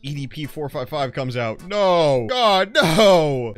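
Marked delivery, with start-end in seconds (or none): 1.7-3.5 loud, high cry of fake terror; mock panicked shout. Gamer yelling in mock panic as night falls. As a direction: yell like the predators are coming.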